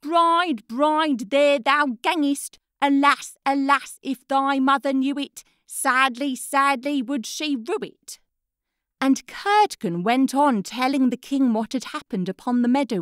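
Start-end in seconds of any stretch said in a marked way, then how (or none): 0.0-8.2 put-on boy retelling the head's words. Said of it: "And the head answers".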